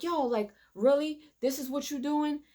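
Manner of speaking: retold outraged "really?" at a friend; angry confrontation. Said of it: "he was like".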